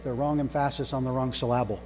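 "emphasis" and "syllable" each stressed on the second syllable; misplaced stress as a joke. Shown as a demonstration. Preacher joking about proper emphasis, "emphasis" and "syllable" stressed on their second syllables. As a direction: jokingly say em-PHA-sis and syl-LA-ble for "emphasis" and "syllable". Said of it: "It's a silly joke".

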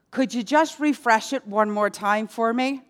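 lightly acted sheepish request; a touch of humble pleading; meek plea. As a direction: ask a small favor timidly. Criminal's meek plea to Peter.

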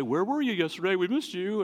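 lightly pointed fake concern; passive aggressive. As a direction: imitate a passive-aggressive churchgoer checking up. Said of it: "And very passive aggressive".

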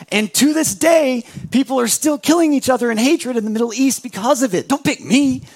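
Abraham pushes the honour away; Abraham protesting. Retold or imitated. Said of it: "He's like".

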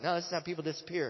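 fast, high, loud protest; alarmed objection. Retold or imitated. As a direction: protest quickly in mock alarm. Acted argument, alarmed objection.

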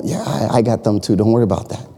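a hint of God calming a fretful believer. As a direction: settle them gently, no worry. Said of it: "God answers".

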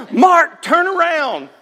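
high, commanding mother; a mock stern order; mom ordering. Mom ordering older son to turn. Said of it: "now I say Cole".

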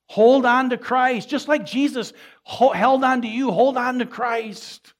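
loud, high, drawn-out exhortation; impassioned preaching. Real, not acted. Preacher urging congregation to hold on, impassioned and loud. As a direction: urge the congregation with full force, slowly.

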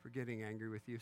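measured, low-key plea for forgiveness; demonstrating a good-sounding apology; mock contrite apology. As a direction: ask forgiveness as if sincerely sorry. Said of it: "doesn't that sound good?".

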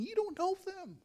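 incredulous inner retort. Retold or imitated. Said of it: "And I'm thinking".

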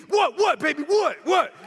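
cocky retold taunting; rapid-fire challenge thrown at the screen; yelling at the TV. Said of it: "I'm yelling at the T V".

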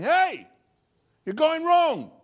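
high, loud call from behind. Acted. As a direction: sharply warn someone who is going the wrong way. God's voice calling from behind.

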